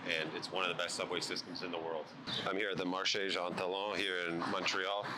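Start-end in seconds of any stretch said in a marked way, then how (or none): 2.9-4.0 Marché Jean Talon with a self-conscious French accent; French pronunciation. Shown as a demonstration. Montreal vlogger naming the market in French, with a light French accent. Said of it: "apologies for my French accent".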